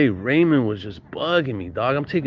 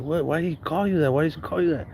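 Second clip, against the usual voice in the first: imitated puzzled questioning, pitched higher; tripped-out brother; 6 semitones higher than usual. Older brother questions his younger brother, mildly mock startled. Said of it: "his brother tripped out".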